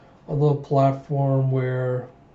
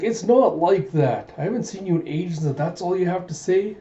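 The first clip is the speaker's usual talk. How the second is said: higher-pitched mock princess pout; indignant protest; 4 semitones higher than usual. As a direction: protest as if hurt and put out. Princess protests at being teased.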